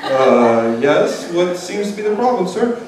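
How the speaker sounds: mildly unbothered clerk; too-relaxed staff. Retold or imitated. ER staff asking about the problem, mock unhurried. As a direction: answer a screaming patient with casual politeness. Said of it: "a little too relaxed".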